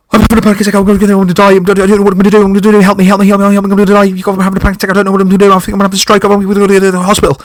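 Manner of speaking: high, loud, breathless panic pleading; frantic panicked yelling. Retold or imitated. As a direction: yell it high and loud like you can't breathe. Retelling own panic attack to housemate.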